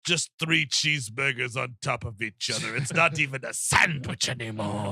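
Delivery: put-on voice of an exasperated Cenobite leader; a weary, appalled demon leader, drawn-out delivery. Cenobite leader scolds Butterball over a pile of cheeseburgers, exasperated.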